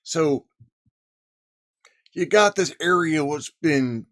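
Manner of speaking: lightly put-on cowboy twang. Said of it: "I'm going to lapse into my cowboy voice".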